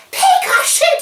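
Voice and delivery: sudden, high-pitched, loud scream.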